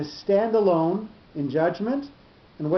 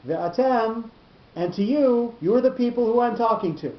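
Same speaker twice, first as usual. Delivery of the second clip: emphatic explanation; 6 semitones higher than usual. Shown as a demonstration. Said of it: "So what is that telling us?".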